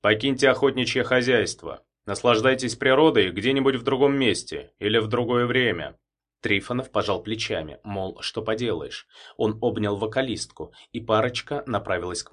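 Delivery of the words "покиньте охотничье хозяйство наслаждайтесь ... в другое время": official tone. Acted. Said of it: "перешёл на официальный тон".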